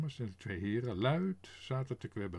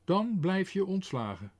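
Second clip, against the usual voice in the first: louder, higher angry threat; 6 semitones higher, 5 dB louder than usual. A narrator's reading. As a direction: spit out the threat. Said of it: "zei meneer Pardoes kwaad".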